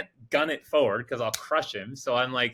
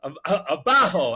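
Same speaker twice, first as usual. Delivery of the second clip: higher, louder mock shouted directions; imitated yelling out; 5 semitones higher, 5 dB louder than usual. Patty giving wrong directions to the driver, mock yelling out. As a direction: shout it while fumbling for the Spanish word. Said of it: "he starts yelling out".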